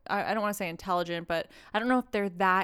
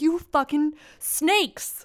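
bitter retort; 8 semitones higher, 3 dB louder, slower than usual. Retold or imitated. Retorting to lying classmates.

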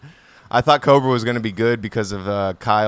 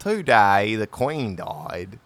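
slow, Aussie-slipping English accent "Today the Queen died"; Australian-tinged English accent; much slower than usual. Shown as a demonstration. English accent attempt slipping into Australian, repeating his friend. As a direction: try the line slowly, drifting into Australian. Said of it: "I literally can't even say".

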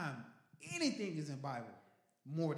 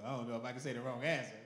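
mock shy churchgoer; 5 dB louder, faster than usual. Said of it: "y'all like".

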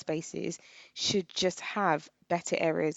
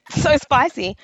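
boss coughing out a complaint; 6 semitones higher, 8 dB louder, slower than usual. Retold or imitated. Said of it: "she was like".

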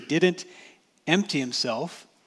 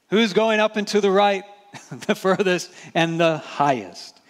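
lifted, louder, eager mock of grasping for rank; eager ambition; 5 semitones higher, 4 dB louder than usual. Preacher mimics disciples jostling for the top seat, eager and loud.

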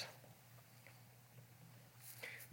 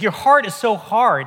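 mild acted frustration; a touch of exasperated reproach; frustrated; 3 semitones higher, 3 dB louder than usual. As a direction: imitate someone fed up with stubborn people. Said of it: "He's so frustrated. He's like".

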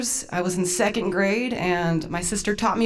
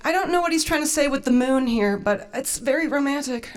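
higher, mildly acted swooning; lovestruck sister; 5 semitones higher than usual. Sister reads a bad French love letter, lightly acted romance. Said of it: "but she's like".

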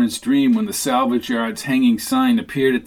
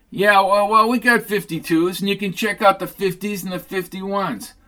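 a raised, chatty salesman voice for Sid; lightly voiced eager Sid; Sid's voice; 7 semitones higher than usual. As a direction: talk him up like a pushy parts dealer. Narrator voicing Sid selling parts.

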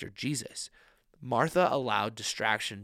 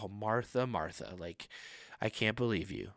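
scolding sigh; 2 semitones lower, 5 dB quieter than usual. Retold or imitated. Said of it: "been like".

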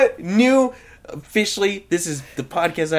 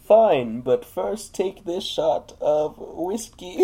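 Bane voice; 4 semitones higher, much slower than usual. Acted. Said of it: "If I do Bane".

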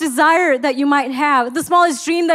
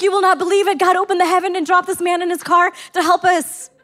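put-on excited child; 5 semitones higher than usual. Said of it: "he's still excited".

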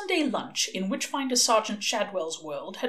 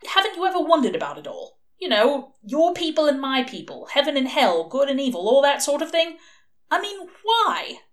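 manic; 7 semitones higher, 5 dB louder than usual. A narrator's reading. Crowley rants about the plan.

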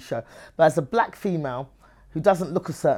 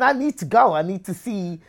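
insistent; 4 semitones higher, 4 dB louder than usual. Retold or imitated. Argues back against the warnings.

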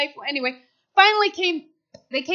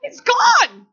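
sarcastic; 6 semitones higher, 6 dB louder than usual. Retold or imitated. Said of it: "I said".

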